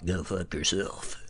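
very quiet, sneering, bad, mean put-on radio DJ voice. Answering a listener's request to be told off, in a bad mean DJ voice. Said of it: "That was actually a bad Mean DJ voice".

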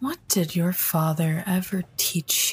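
calm, unmoved, stoic and impassive tone. Game master voicing a character who was asked to give back a ring, stoic. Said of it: "in his stoic manner".

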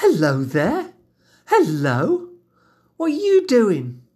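put-on high, sing-song baby-talk cooing. Explaining how parents coo at a newborn, cooing like to a baby. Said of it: "It's kind of like, ... That kind of vocal tone".

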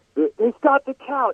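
play-acted shrill shouted alarm, very high scream. Retelling a kid running into the cafeteria: imitating someone screaming. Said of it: "just screams, like".

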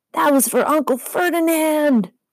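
very high-pitched, shrieked, yelled-back reply. Narrator reads Grover answering Medusa during an attack; yelling back. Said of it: "Grover yelled back".

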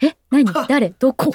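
put-on startled confusion. Describing being hit out of nowhere while spacing out, mock-startled confusion. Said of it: "こっちはなんかボーっとしてるところにドーンって来るから".

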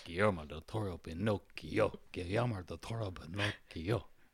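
Italian-sounding accent. Speaker repeats a tongue-twister title, Italian-sounding voice. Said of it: "You sound like you were in House of Gucci for a second".

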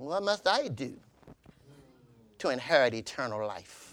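acted, very low, very quiet, sassy sarcasm. Retelling the lawyer's question to Jesus, mock-sassy sarcastic tone. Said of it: "saying in a sassy, sarcastic way".

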